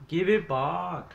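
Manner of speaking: loud, high, drawn-out mock scream; hammed-up yell after a thief; mock screaming clerk. Gamer replaying the shop worker gag mid-game, mock screaming. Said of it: "come running out with a shotgun screaming".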